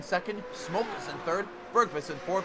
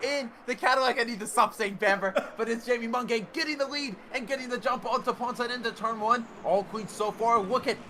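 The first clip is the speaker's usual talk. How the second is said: high, loud race-start call; excited shout; 4 semitones higher, 3 dB louder than usual. Real, not acted. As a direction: call the start at full pitch. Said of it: "I'm running out of breath".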